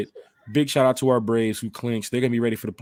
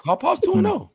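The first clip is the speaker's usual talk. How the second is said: much higher squealing chant. Acted. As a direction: squeal it playfully. Repeating catchphrase, pitch jump.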